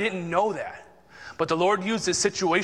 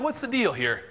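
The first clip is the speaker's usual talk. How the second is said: higher-pitched mock-indignant question; retold indignation; 5 semitones higher than usual. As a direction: replay a miffed challenge to the boss. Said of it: "and I'm getting mad".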